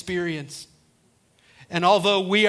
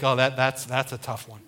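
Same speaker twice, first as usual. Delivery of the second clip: hesitant Moses; 4 semitones lower than usual. Acted. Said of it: "Moses is like".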